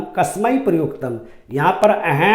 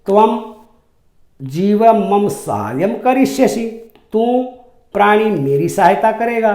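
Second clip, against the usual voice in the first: mocking lion; 4 semitones higher than usual. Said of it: "शेर उपहासपूर्ण हंसी में बोला".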